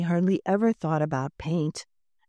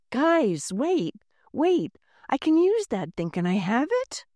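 put-on much higher, eager girl's call; calling out excitedly; 7 semitones higher than usual. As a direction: wave them down, breathless and eager. Girl runs shouting to workers.

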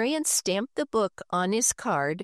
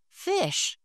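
Henry's voice; 11 semitones higher than usual. Acted. Henry shows mother his fish.

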